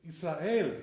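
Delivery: "Israel" slowly as yis-ra-EL, pure e; "Israel" drawn out with an open e; correct Israel. Shown as a demonstration. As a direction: end "Israel" on a plain "el", no ay glide. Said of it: "That's the correct way to say it".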